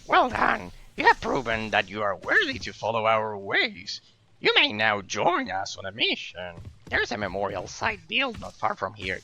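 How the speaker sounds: lightly voiced lizard man. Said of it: "train a lizard man voice to read them".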